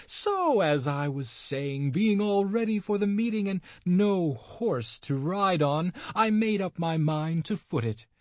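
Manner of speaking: put-on high, cackly old crone complaining; scheming old witch gossiping. A narrator's reading. Old witch telling the devil her broomstick was stolen, high crone voice.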